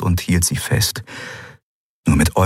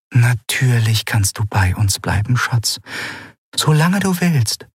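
comforting; 5 semitones higher than usual. Acted. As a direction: reassure her gently, almost whispering. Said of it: "das tröstende Lächeln ihrer Mutter".

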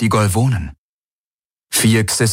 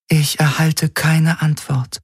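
raised, otherworldly alien voice; eerie alien Helix; 8 semitones higher, slower than usual. Acted. The alien Helix warns Garland's crew, cool and otherworldly. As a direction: speak like a detached alien intelligence.

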